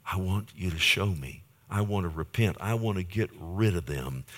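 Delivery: personal prayer. Shown as a demonstration. Continues the example prayer.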